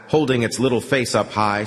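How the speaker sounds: usual speaking voice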